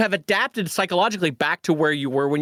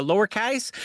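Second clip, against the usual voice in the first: accidental British accent; 3 semitones higher than usual. Real, not acted. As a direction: slip into British vowels on lowercase. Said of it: "you became British there for a minute".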